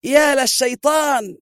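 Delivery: very high, slow, full-throated yell; drawn-out cry of rage; furious shout. A narrator's reading. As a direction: roar it as he shoves the guard away. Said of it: "وهو يصرخ".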